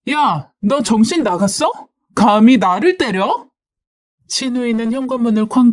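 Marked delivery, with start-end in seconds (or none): 0.1-3.5 higher, affronted challenge; mildly acted indignant demand; huffing anger. Sister-in-law storming in on her attacker, angry challenge. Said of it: "신우이가 씩씩거리며 들어왔습니다".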